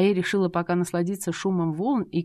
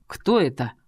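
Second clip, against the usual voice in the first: lower, louder growl on кто; growling husband; 4 semitones lower, 3 dB louder than usual. A narrator's reading. Jealous husband demands who the man is, growled. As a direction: growl the кто, low and hard. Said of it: "прорычал муженёк".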